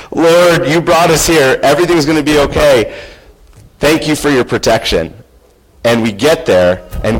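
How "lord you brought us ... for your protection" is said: urgent prayer. Retold or imitated. Father praying while his family's bikes slip by the cliff, urgent and pleading. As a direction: cry out to the Lord fast in fear.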